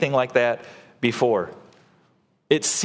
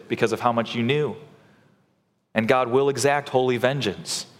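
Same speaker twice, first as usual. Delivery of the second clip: grave, measured warning, slightly lowered; sober answer; 3 semitones lower than usual. Acted. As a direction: answer soberly, with restrained gravity. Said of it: "the author soberly answers".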